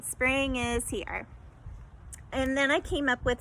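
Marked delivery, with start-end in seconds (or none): 0.0-1.3 Spring is here, slow with each syllable apart; counting syllables slowly. Shown as a demonstration. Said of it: "That one was only three".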